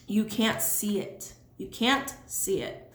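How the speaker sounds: slow, careful thick-tongued speech; with a sore tongue. Real, not acted. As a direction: pronounce around a swollen tongue. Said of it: "I feel like my tongue is swollen".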